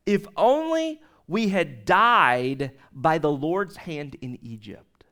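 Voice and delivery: slow mock whine fading to a whisper; mock the grumblers slowly, trailing off; a hint of whining complainers; whining Israelites. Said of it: "the Israelites said to them".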